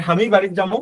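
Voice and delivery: Bogura regional pronunciation; Bogura dialect. Shown as a demonstration. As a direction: say it like a Bogura local. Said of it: "এটা আমার বগুড়ার মানুষেরা".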